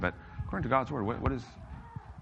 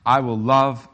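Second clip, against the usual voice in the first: scripture reading; 2 semitones lower, 5 dB louder, slower than usual. Shown as a demonstration. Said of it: "here's him doing it".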